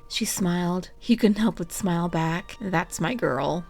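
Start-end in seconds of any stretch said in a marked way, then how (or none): 2.6-3.6 sighed. Acted. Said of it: "he sighed".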